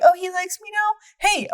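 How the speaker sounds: high, slow, giddy lovestruck voice; giddy Bella. Retold or imitated. Friend mocking Bella's crush: high, slow, giddy voice. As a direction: swoon over him, drawn out and high. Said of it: "She's like".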